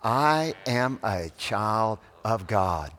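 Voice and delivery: put-on "I am a child of God" slowly, word by word, a bit firmer; slow call-and-repeat. Shown as a demonstration. Preacher leading congregation to repeat after him, slow and deliberate. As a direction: lead it slowly for others to repeat. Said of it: "Can you say that".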